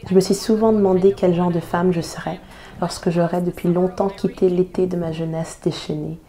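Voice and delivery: spoken-word poem recital with emphatic key phrases; poem reading. Acted. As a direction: read it as a committed, rhythmic protest poem. Reads a poem aloud. (lecture de poème engagée)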